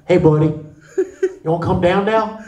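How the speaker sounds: lightly voiced fireman. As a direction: coax someone down, lightly playing a fireman. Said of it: "I'm the fireman".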